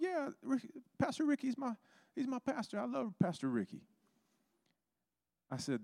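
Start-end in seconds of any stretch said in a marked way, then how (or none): 0.0-3.8 very high-pitched, eager gushing; excited reply. Retold or imitated. Young man telling preacher he loves his pastor, excited. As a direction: squeak it out with delighted eagerness.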